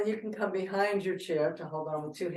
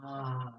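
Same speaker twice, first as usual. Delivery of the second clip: sighing exhale; 3 semitones lower, 4 dB quieter than usual. Shown as a demonstration. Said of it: "exhaling with a sigh".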